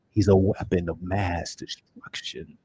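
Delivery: slow, weighty hero delivery; Hawkman cadence. Retold or imitated. Fan copying Hawkman's cadence, slowly and deliberately. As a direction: lay every word down slowly like the hero. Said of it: "emphasizes the right vowels".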